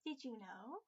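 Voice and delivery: "Did you know?" dropped low in a husky put-on voice; low husk voice. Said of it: "I could do a husk voice".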